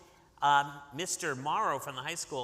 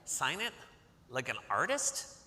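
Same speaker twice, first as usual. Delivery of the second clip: put-on shocked boy; slower than usual. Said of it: "He's like".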